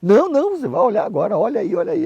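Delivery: high, loud insistent voice; insistent pushing. Retold or imitated. Pastor insiste que olhe oferta. (pastor insistindo, bem mais alto e agudo)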